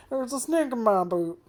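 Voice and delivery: high, loud pull-string toy voice; talking doll. Pretend. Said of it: "That, that was an impression of, of, like, a doll".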